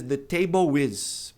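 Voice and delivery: The table is, slowly, L turned into U; The table is without linking the L; wrong pronunciation. Shown as a demonstration. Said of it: "A maioria das pessoas diz". (pronúncia errada sem ligação)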